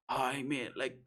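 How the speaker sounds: imitated broad Belfast, with swooping tune; thicker Belfast accent. Man asking a neighbour about a car, in thick Belfast accent. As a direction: put on a stronger Belfast accent. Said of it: "His accent was like".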